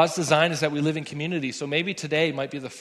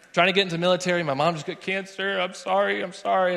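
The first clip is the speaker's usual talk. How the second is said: frantic overexplaining; 5 semitones higher, 3 dB louder than usual. Retold or imitated. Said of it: "what I start saying to this person".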